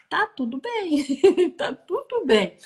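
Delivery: high, slowing words broken by a laugh; laughing reassurance. Retold or imitated. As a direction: laugh through a retold reassurance. Laughs while retelling her reassurance.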